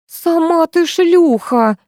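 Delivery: high, slow shriek of an insult. A narrator's reading. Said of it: "завизжала Антонина".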